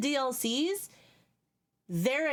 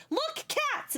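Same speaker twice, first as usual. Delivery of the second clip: imitating friend. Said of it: "she was like".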